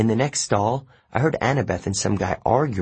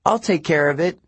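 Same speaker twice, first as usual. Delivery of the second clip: higher, raised voice yelling back; 8 semitones higher than usual. Acted. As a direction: shout it over the music. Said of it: "Annabeth yelled back".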